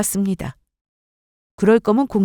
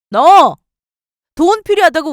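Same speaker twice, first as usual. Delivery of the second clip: louder, a furious outburst; angry shout; 5 semitones higher, 8 dB louder than usual. Acted. Husband yelling at his wife in rage. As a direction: bark the word out loud in fury.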